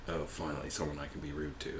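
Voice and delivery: mock rude Irishman. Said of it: "The Irish guy was like".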